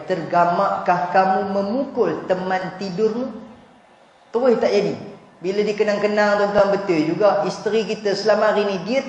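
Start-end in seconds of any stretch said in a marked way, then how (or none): 0.1-3.3 gentle rebuke. Retold or imitated. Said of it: "Oh, itu ayat dia".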